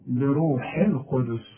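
بروح القدس said slowly and quietly with a kasra on the ba; correct recitation. Shown as a demonstration. Teacher giving the correct reading after the mistake. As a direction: say بروح with a clear i. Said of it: "والحاء مكسورة".

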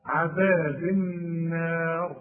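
"عذاب النار" slowly with a long hummed n and light "نا"; careful recitation. Shown as a demonstration. Teacher demonstrating the reading before a stop, careful recitation. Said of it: "القلقلة عند الباء".

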